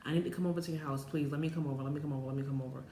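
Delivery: hurried, repetitive mock pleading; freaking out. Begging sister to let her come over, freaking out. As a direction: rattle off a retold frantic plea. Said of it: "I'm over here freaking out".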